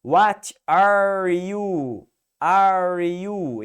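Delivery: slow, loud American accent with a strong R in "are"; hammed-up American accent. Shown as a demonstration. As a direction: lean on the American R in "What are you?". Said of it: "se você pegar um sotaque do americano".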